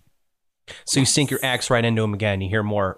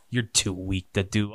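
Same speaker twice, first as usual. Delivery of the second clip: slow, lower, softer taunt from a monster; 3 semitones lower, 6 dB quieter, slower than usual. Acted. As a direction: sneer softly as the creature. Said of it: "and he goes".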